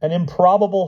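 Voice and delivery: high protest climbing word by word; rising, high-pitched storybook outcry; shouting Hyde. A narrator's reading. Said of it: "shouted Hyde".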